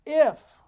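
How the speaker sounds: IF punched high and loud; stress on IF. Shown as a demonstration. Pastor stressing If to his congregation, punched. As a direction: hit the word If hard before the verse. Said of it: "big word".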